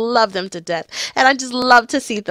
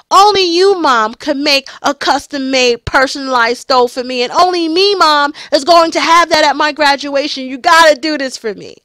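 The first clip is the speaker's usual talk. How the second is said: put-on louder, higher, excited teen insisting; eager son pleading; 4 semitones higher, 3 dB louder than usual. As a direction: push it like a thrilled kid begging mom. Son begging mom for stole.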